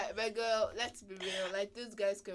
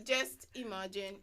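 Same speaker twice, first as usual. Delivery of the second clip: put-on Nigerian accent. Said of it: "in Nigerian accent".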